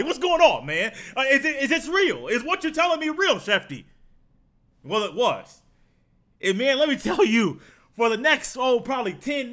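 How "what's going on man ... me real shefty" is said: playful disbelieving yell; mock yelling. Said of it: "like you're yelling at somebody".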